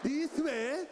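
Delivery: mock Japanese accent pushed from the diaphragm; hammed-up Japanese-accented male voice; Japanese man accent. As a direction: imitate a Japanese man, belly-driven. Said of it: "it come from diaphragm".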